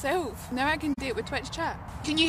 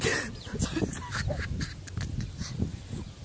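laugh; 3 semitones higher, 7 dB quieter than usual. Real, not acted. Breaks up after Randy voice.

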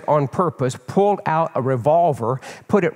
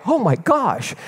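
higher-pitched retold startle; startled; 6 semitones higher, slower than usual. Praying brother hears his sister's voice, startled. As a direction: gasp it out as if mildly startled. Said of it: "I was startled".

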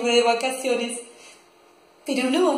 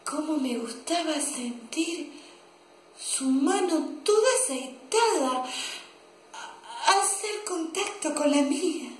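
hushed swoon with pauses; dreamy longing; 5 dB quieter than usual. Acted. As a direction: linger lovingly over a sensual memory. Lovelorn memory of his hand.

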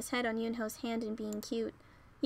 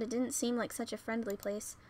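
plain reading voice

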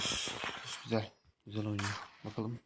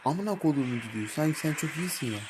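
angry cursing; 4 semitones higher than usual. Real, not acted. Cursing at a teammate.

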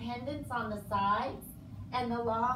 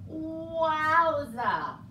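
excited exclamation; 6 semitones higher, 8 dB louder than usual. Acted. Reacting to hair count fact.

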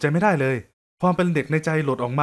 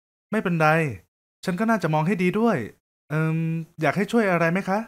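lightly voiced young woman; 2 semitones higher than usual.

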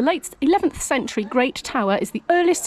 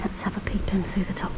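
whisper; 6 dB quieter than usual. Real, not acted. Peeping quietly into model.

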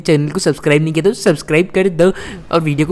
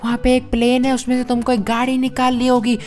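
high, softer put-on Iron Man voice; Iron Man's voice; 7 semitones higher, 4 dB quieter than usual. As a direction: play Iron Man briefing Franklin on the urgent job. Iron Man explains the job. (Iron मैन की ऊँची धीमी आवाज़)

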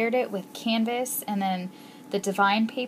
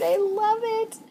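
much higher, thrilled; excited squeal; 13 semitones higher, 4 dB louder than usual. Real, not acted. Gushing over gift.

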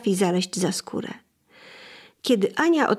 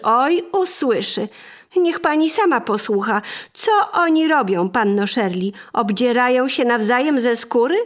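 raised, indignant complaint at the door; angry lady; 3 semitones higher, 3 dB louder than usual. Acted. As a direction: scold loudly, higher than the narration. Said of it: "zagniewana pani".

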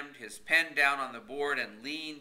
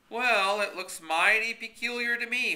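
put-on lightly raised rustic old man; a hint of a stubborn country fellow; folksy old Horace voice; 11 semitones higher, 8 dB louder than usual. A narrator's reading. Horace's voice, loud.

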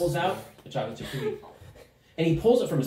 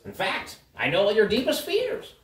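slightly higher, knowing gnome; lightly voiced uncanny gnome; 3 semitones higher than usual. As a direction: reveal their secrets with a hint of theatrical menace. Gnome figure taunts the party.

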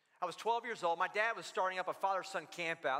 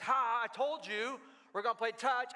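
higher, mock-gloating kid's jeer; gloating taunt; 4 semitones higher than usual. Kid to rival after touch is chosen, gloating taunt. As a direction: crow it like a kid who won.

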